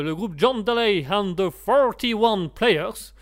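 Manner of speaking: band name in a careful English accent; slow, deliberate English accent. Shown as a demonstration. French host proudly putting on an English accent. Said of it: "je fais les accents anglais".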